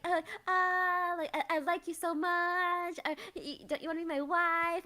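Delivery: hammed-up flirty wooing; mock flirting. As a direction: imitate a gushing, stammering suitor. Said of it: "flirting with her".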